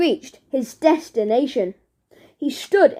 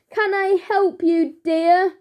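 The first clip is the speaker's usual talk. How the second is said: put-on sweet old lady voice, a little higher; old lady calling down; 4 semitones higher than usual. A narrator's reading. Old lady calls down to Barry, sweetly. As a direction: call down kindly like an old granny. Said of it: "she called down".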